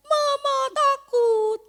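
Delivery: hammed-up toddler whining to Mama; mock whimpering child. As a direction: stretch it out like a scared little kid. Toddler whines it is scared.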